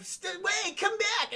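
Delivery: high-pitched mock calling after someone. Arnold calling after a fleeing woman, mock urgent call. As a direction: imitate calling to someone running off.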